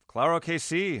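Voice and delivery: smiling reply. Acted. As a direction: beam as you answer in Spanish.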